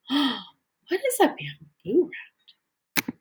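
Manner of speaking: sharp gasp, then a high, slow, wondering question; gasp of surprise. Acted. Teacher gasping at bamboo rats for the class, high and slow. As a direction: act astonished for the kids. Teacher reacts to book fact.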